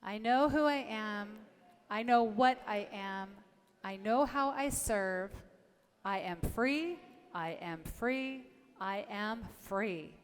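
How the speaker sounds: slow, deliberate group affirmation; affirmation recited aloud. Shown as a demonstration. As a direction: lead the congregation in a slow affirmation. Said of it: "So let's say it together".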